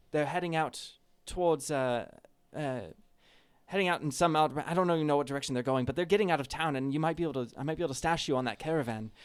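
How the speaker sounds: half-elf plotting escape, drifting into Welsh; slipping Welsh accent. Acted. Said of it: "I guess I'm Welsh now".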